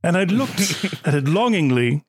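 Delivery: calm, lightly British storyteller; slightly British accent. Acted. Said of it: "answer this in a slightly British accent, very calmly".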